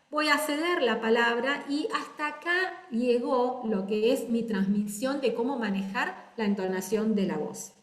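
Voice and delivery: a winding-down fall to let the other speaker in; falling close. Shown as a demonstration. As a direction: drop the tone to hand over the floor. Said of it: "Bajé, ¿vieron? Bajé el tono de la voz".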